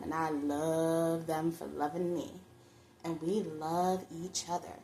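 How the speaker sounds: lightly voiced diva savouring her moment; a hint of the self-adoring star; Roxy Hart. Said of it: "that song by Roxy Hart where she's having her little narcissistic moment".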